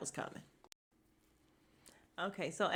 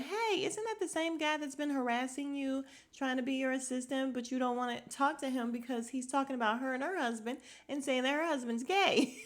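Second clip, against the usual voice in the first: matter of fact; 5 semitones higher than usual. Retold or imitated. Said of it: "lady said it so matter of fact".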